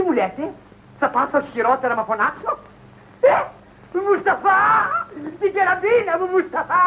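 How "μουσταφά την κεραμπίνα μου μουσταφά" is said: tearful, drawn-out call for a servant; delirious shout. Acted. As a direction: cry out for help in feverish outrage. Delirious man calls for his rifle. (παραληρηματική κραυγή)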